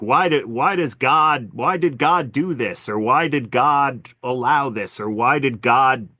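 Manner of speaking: drawn-out mock student questions; imitating students' questions. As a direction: lightly voice earnest students asking why, word by word. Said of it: "so I tell my students, you know, like, they'll be like".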